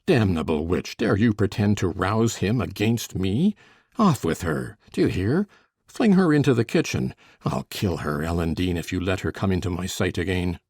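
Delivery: deep, menacing rage; furious master. A narrator's reading. Heathcliff rages at Catherine.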